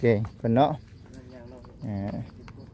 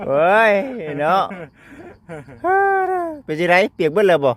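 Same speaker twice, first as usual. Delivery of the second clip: louder, higher, animated questions; lively concern; 8 semitones higher, 5 dB louder than usual. Real, not acted. Asking his friend if he got soaked, loud and lively. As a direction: call over with friendly worry.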